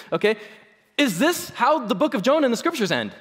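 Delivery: ordinary talk, nothing marked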